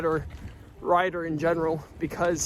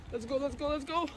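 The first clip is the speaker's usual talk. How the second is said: pumped up; 8 semitones higher, 6 dB quieter than usual. Real, not acted. Psyching up for the climb.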